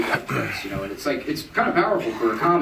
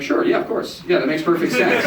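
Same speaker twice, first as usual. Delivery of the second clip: high, breathless eager yes; eager agreement; 6 semitones higher than usual. Retold or imitated. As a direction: agree far too quickly. Sarcastic drunk agreement.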